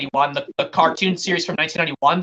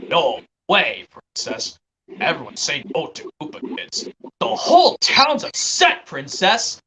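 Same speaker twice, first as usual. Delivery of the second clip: cartoon impression; 3 semitones lower, slower than usual. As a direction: quote a cartoon character's protest. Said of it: "from the Super Mario World cartoon".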